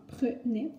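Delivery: "Prenait" broken as "preu-nait"; syllable-by-syllable "Prenait", schwa then è. Shown as a demonstration. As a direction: sound out "Prenait" with "euh" first. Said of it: "comme un E, tout simplement".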